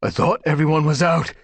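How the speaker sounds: loud, high spat line; spitting. A narrator's reading. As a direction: spit it out angrily. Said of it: "spat Dustpelt".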